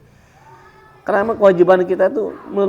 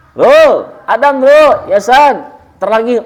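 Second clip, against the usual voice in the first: calling out; 7 semitones higher, 7 dB louder, slower than usual. Retold or imitated. Calling a boy from his kite.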